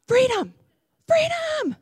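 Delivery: high joyful cries; excited shout. Real, not acted. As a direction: cheer it out like release. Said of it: "I get a little excited when I share".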